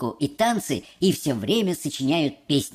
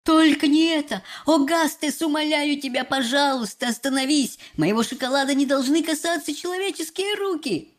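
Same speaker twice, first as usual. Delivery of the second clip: horrified, higher-pitched exclamation; Mr Wonka; 6 semitones higher than usual. A narrator's reading. Chocolate maker begs boy to stop, horrified. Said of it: "мистер Уонка в ужасе воскликнул".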